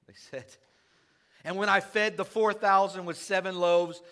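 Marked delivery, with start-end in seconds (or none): 1.4-4.0 high, loud exasperated reminder; frustrated Jesus. Acted. Jesus reminding disciples of the feeding, frustrated. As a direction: drive the reminder home, voice raised. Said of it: "He's getting a little frustrated".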